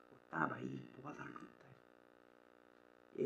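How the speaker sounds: words barely come out, close to tears; voice breaking. Real, not acted. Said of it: "यार रोना जाएगा". (टूटती, धीमी, रुआँसी आवाज़)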